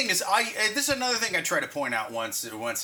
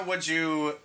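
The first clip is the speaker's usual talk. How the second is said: slow, soft hypnotic request; slow hypnotist voice; 2 semitones lower, 4 dB quieter, slower than usual. Pretend. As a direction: coax gently, drawing it out. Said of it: "Do Morgan Freeman asking a woman".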